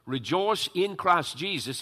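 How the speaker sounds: slow, emphatic "Rejoice in Christ Jesus"; emphatic quote. Retold or imitated. Preacher quoting Paul's written command to the congregation, slow and emphatic. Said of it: "how emphatic that is".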